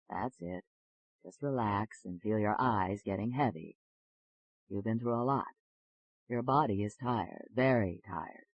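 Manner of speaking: low, reassuring hypnotist's patter; soothing hypnotist. Acted. Doctor putting a nervous patient under hypnosis, soothing and low.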